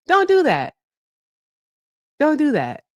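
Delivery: high-pitched plea with laughter; laughing protest. Real, not acted. Host still begging Shauna to stop, laughing high protest.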